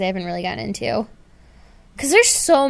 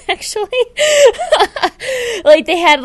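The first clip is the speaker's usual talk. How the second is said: laughing through the words; giggling embarrassed; 12 semitones higher, 7 dB louder than usual. Real, not acted. Laughing about porn issue.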